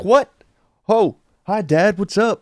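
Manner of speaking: high, startled and sheepish; caught off guard. Retold or imitated. Seeing his dad behind the cop, startled sheepish greeting. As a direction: squeak it like you just got caught.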